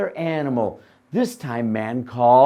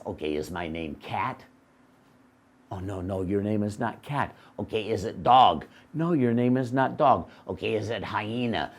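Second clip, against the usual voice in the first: dopey donkey; 5 semitones lower, 4 dB quieter than usual. Acted. Donkey guessing its name.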